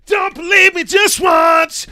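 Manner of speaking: big high shout, slow and drawn out; huge shout. Real, not acted. Streamer shouting to his viewers not to believe him, drawn out. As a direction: yell it, stretching each word.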